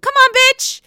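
high, breathless mock Teresa; Teresa impression. Mocking Teresa snapping at her sister-in-law, high squeal. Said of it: "Teresa's like".

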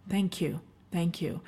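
soft, whispered thanks through real tears of gratitude; choked up and barely voiced, thanking listeners; tearful whisper. Real, not acted. Host thanks her listeners, moved to tears, whispering softly. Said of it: "I'm literally have tears of gratitude as I say that".

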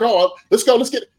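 imitating a giddy quarterback. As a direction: bounce with impatient excitement. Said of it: "he was almost giddy".

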